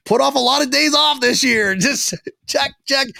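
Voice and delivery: high, put-on nerd voice; little nerd. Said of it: "like a little nerd".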